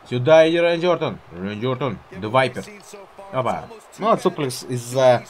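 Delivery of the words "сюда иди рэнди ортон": louder shouted challenge; loud taunt. Real, not acted. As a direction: yell him over. Calling opponent over.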